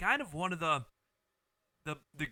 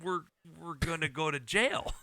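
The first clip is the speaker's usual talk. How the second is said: put-on southern accent; 4 semitones higher than usual. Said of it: "the guy's name with the southern voice".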